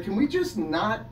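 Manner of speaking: high, slow whiny plea; mock pleading. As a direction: plead like a fed-up kid. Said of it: "And I was like".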